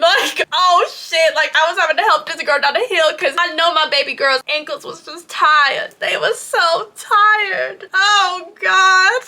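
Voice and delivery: high voice, breaking into laughter; helplessly amused, pitch climbing; real amusement. Real, not acted. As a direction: talk while cracking up. Cracking up at friend's wobbling ankles.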